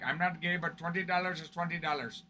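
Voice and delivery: quiet, lightly put-on Indian accent; a hint of an Indian accent; mock Indian accent. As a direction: imitate the kids from India, softly. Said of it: "my best attempt at an accent".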